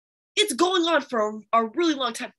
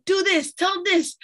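imitating mom; 8 semitones higher, 5 dB louder than usual. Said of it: "she'll tell him".

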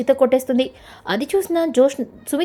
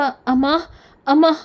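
repeated, mildly wailed calls, rising higher; acted crying; 3 semitones higher than usual. Deepa over her collapsed mother, acted tearful calling. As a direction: lift the last call into a mock wail. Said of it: "అని ఏడుస్తూ".

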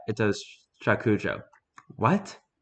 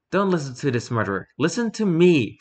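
crying out; 6 semitones higher than usual. Acted. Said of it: "Fumiko cried".

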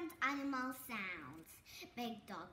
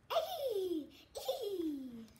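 dolphin squeak; 3 semitones higher than usual. Shown as a demonstration.

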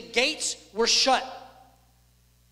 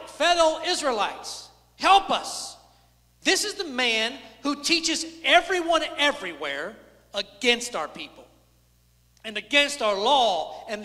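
mock crowd shout. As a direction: call out as the accusers, without full force.

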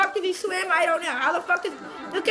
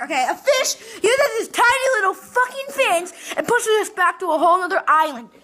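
laughing outrage; 3 semitones higher, 6 dB louder than usual. Real, not acted. Gamer laughs angrily at the fish mechanic. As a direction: cackle through the disbelief.

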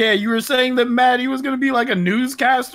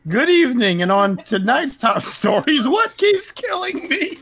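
newscaster voice; 5 semitones higher than usual. Pretend. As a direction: announce it like the evening news. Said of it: "news networks".

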